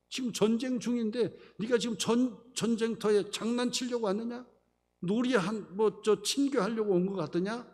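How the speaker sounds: high, pressing mock reprimand; retold scolding. Older brother rebukes David for playing at war, scolding. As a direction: imitate a brother telling off the youngest. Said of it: "그러면서 막 뭐라고 해요".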